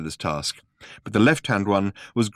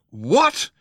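higher, louder startled shout; 9 semitones higher, 4 dB louder than usual. A narrator's reading. Ford hears Arthur call Zaphod Phil, shouting. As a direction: shout the question in shock. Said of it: "shouted Ford".

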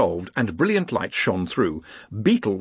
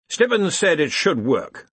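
uncertain; 7 semitones higher, slower than usual. A narrator's reading. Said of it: "said Ridcully uncertainly".

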